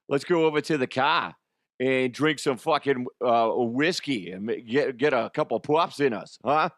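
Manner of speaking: silly Boston accent; rough attempt at Boston talk. Shown as a demonstration. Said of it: "I always wanna do a Boston accent".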